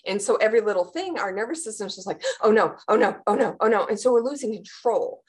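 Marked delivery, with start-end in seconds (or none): 2.4-3.8 repeated anxious oh no; panicky oh no. Retold or imitated. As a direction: fret it out, rising panic. Voicing the panicking nervous system.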